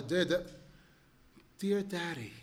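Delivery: a touch of tender feeling on dear daddy; heartfelt reading. Acted. Kind neighbor reads the son's letter to the father, heartfelt. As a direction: read it as if to sixty thousand people, with heart. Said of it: "He's reading it with all heart".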